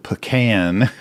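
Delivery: PECAN said puh-KAN; Texas pecan. Shown as a demonstration. Reading a reader's Texas comment, pecan as puh-KAN. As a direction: say pecan as puh-KAN, stress on the second syllable. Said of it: "I'm emphasizing the P over the P".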